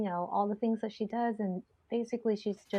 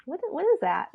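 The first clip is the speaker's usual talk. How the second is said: a hint of a baffled old lady, higher and louder; 7 semitones higher, 5 dB louder than usual. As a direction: ask it like a confused granny. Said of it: "I sound like an old lady".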